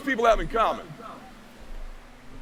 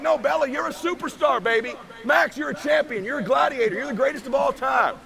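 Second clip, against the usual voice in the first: put-on higher, beaming praise for the kids; proud dad cheering; 4 semitones higher than usual. A father tells Bella and Max they are champions, excitedly proud. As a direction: lift them up, all pride.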